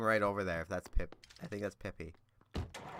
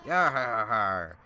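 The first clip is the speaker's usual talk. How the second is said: pirate voice. Acted. Voicing a pirate villager.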